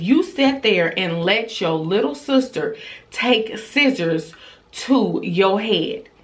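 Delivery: mild incredulous scolding, slowing at the end; retold scolding. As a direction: draw out the reproach, as a mother would. Mother scolds daughter in retelling.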